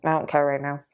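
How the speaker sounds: low, casual words round chocolate; talking while chewing. Real, not acted. Vlogger eats chocolates while addressing viewers, talking while chewing. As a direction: talk through a mouthful. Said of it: "I'm talking while I'm chewing".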